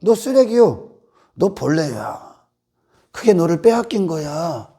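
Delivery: low, soft and slow, letting each word sink in; quiet gospel voice. Retold or imitated. Preacher voicing the gospel to the congregation, quiet and low. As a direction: say it softly, as a hard truth. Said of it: "근데 복음은".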